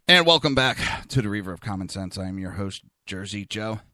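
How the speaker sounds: breathless after rushing back; puffing, short of breath. Real, not acted. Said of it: "Sorry, I'm out of breath".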